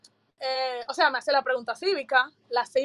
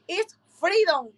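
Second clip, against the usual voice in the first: slow, higher, assured answer; very sure; 4 semitones higher, much slower than usual. Retold or imitated. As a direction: state it slowly and with certainty. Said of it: "bien como que bien seguro".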